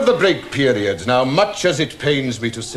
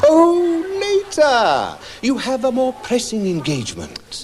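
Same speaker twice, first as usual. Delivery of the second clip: sarcastic; 9 semitones higher than usual. Acted. Teacher mocks pupil's excuse.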